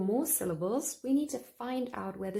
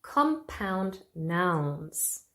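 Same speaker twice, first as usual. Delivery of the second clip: slow announcing; much slower than usual. Shown as a demonstration. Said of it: "Rule number five for word stress".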